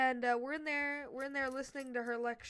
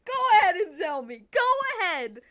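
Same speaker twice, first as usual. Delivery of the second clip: loud, higher dare to go ahead; defiant shout; 7 semitones higher, 15 dB louder than usual. Retold or imitated. Student shouting back at the teacher, defiant and loud. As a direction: bark it back at the teacher, daring.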